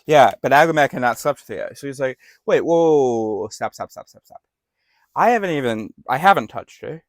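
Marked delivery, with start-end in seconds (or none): 2.5-7.0 panicked protest. Retold or imitated. King panics, stops God.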